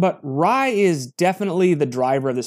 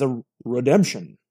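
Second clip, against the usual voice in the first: announcer voice; 5 semitones lower than usual. Shown as a demonstration. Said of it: "That one wasn't very good".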